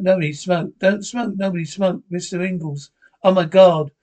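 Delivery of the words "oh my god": sudden shocked cry; shocked exclamation. Acted. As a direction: gasp out in horror. Discovering a scene.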